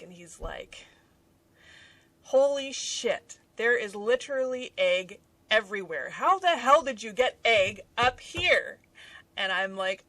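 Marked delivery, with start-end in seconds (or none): 2.2-8.8 louder, mock amazement; retold astonishment. Husband seeing egg all over desk, loud amazement. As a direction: exclaim like a stunned husband.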